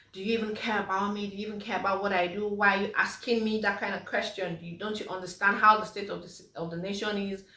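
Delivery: fast, mock-irritated outburst at the husband; a hammed-up, touchy comeback to a simple question; irrational snapping. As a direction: rattle off the questions like an unreasonable rant. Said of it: "irrational responses to certain situations".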